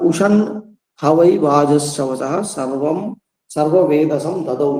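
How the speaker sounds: slow, even recitation of the Sanskrit verse; plain mantra reading. Shown as a demonstration. Teacher reading the Upanishad verse aloud to students, slow plain recitation. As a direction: read the mantra slowly without any tune. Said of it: "তো আমরা এমনি just পড়বো".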